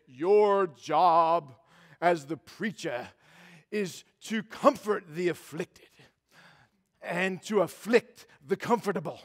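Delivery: booming baritone preacher impression; Doctor Pennell. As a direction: boom it out weightily, phrase by phrase, like an old-school preacher. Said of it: "in this booming baritone voice".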